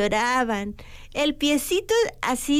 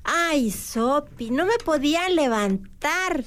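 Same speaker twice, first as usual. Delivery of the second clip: slow, drawn-out woe; plaintive complaint; slower than usual. Acted. Seagull telling Sopi she could not get up, plaintive. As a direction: stretch the sigh-like "Ay" into a mild lament. Seagull character recounts her illness.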